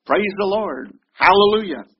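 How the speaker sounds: high, loud call of amen and hallelujah; congregation shouting back. Retold or imitated. Congregation member shouting back at the preacher, high and loud. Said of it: "they'll shout right back at the preacher".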